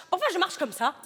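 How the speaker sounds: high, laughing hammed-up African accent; caricature African accent. Performing for the casting director in a hammed-up African accent. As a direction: play the African cliché to the hilt. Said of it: "je veux un accent africain".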